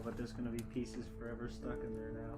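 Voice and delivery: ordinary delivery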